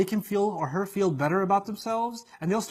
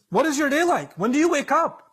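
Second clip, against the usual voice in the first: scheming devil; 6 semitones higher than usual. Retold or imitated. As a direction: ask like a spy sizing you up. Devils surveilling you.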